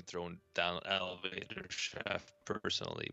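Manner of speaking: Skype-garbled robot voice; robotic voice glitch. Real, not acted. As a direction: voice distorted like a bad call. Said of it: "Skype just robot-, roboticized your voice".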